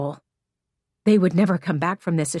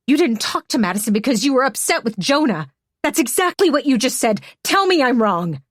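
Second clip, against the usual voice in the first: angry accusation; 3 semitones higher, 3 dB louder than usual. Acted. Hannah blames Emmy for Madison.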